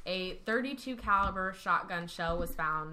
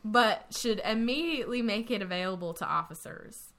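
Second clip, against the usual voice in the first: put-on Texas accent. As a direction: read it like a born Texan. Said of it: "Should I read this in a Texas, Texas accent?".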